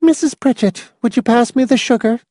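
a lightly voiced prim woman, firm. A narrator's reading. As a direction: Miss Rice asks the old woman for sugar, firm and high. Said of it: "Miss Rice said firmly".

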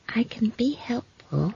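small, high, slow whisper; quiet. A narrator's reading. Girl offering help to a busy man, quietly. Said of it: "said Esk quietly".

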